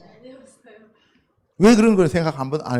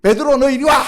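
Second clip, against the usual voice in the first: mock angry call; 7 semitones higher, 4 dB louder than usual. Jesus imagined scolding Peter.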